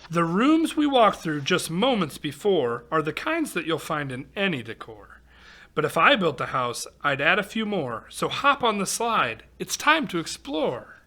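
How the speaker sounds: lively singsong storybook read-aloud; reading to children. Acted. Reading a rhyming picture book aloud to kids, lively storytelling. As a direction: read the rhyme to a young audience.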